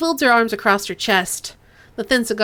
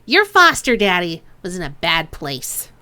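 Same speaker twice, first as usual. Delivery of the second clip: put-on Chang's accent retaken; 2 semitones lower, 3 dB louder than usual. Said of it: "Why am I picking up Duncan's accent".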